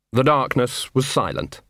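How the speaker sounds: plain reading voice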